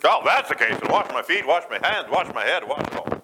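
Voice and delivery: words tumbling out, eager and overeager; eager Peter. Retold or imitated. Peter overcorrecting to Jesus, mildly eager. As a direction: gush it, wash everything. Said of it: "in typical Peter fashion".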